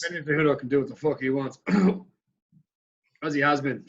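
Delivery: hiccuping between words; with hiccups. Real, not acted. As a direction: talk through the hiccups. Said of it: "I'm struggling with the hiccups here".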